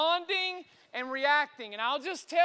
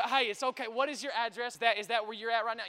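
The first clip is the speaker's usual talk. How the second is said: measured, reassuring operator voice; composed responder; 3 semitones lower, faster than usual. Retold or imitated. Dispatcher asking a frantic father his address, composed. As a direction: imitate a dispatcher steadying the caller. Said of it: "they are responding rather than reacting".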